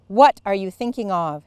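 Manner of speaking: loud, sharp demand. A narrator's reading. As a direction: turn on her fiercely. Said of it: "she demanded".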